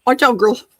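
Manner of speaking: loud call to the dogs. Real, not acted. Calling to dogs.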